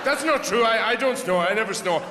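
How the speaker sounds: hammed-up defensiveness; mock indignant denial. Napper denying snoring.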